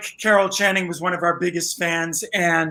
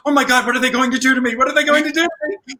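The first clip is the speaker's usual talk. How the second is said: fast, higher mock panic; imitating panic; 5 semitones higher, much faster than usual. Marin Mazzie dreading the Ragtime spoof, fast mock panic. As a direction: rattle it off like she's freaking out. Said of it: "She was all freaking out".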